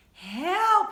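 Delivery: high, very loud shout for help. A narrator's reading. Tom trapped in the fridge, full shout for help. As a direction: yell for rescue at full force. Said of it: "he shouted".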